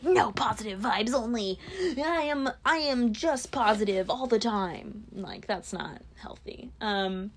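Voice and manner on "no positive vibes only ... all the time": mock cheerful. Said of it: "just being like".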